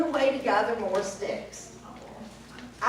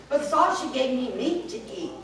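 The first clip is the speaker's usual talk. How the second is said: laughing; faster than usual. Acted. Cat mocks the witch.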